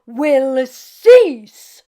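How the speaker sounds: slow, loud, earnest rabbi advice; earnest old rabbi. Acted. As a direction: counsel her gently but firmly. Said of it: "said the rabbi".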